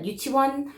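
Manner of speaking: yuchiwon said the Korean way, yu-chi-won; Korean word. Shown as a demonstration. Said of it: "in Korea we call that".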